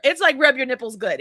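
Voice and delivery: normal talking voice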